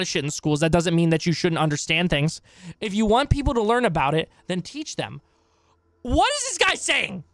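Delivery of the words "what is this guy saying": much higher, slow disbelieving question; incredulous. Real, not acted. Baffled streamer reacting to the clip, high and slow. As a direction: ask it as if he's lost his mind.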